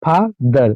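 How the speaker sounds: "फादर" broken in two, फा, then दर; split into syllables. Shown as a demonstration. Teacher showing learners two syllables, "फादर" split as फा - दर. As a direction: pause between फा and दर in "फादर". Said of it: "दो बार हम अटकते हैं".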